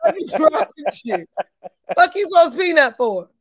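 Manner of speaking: heated ranting, half amused; riled-up scolding on the edge of laughter; worked-up mad. Real, not acted. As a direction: lay into them with incredulous outrage. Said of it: "Yo, I'm mad".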